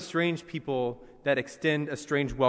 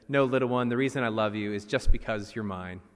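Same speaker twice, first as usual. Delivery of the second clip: lowered, gentle father voice reassuring his little one; a daddy squirrel telling his child he is loved, in a lightly lowered kind voice; 5 semitones lower than usual. Retold or imitated. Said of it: "daddy squirrel is tucking the baby squirrel into his bed".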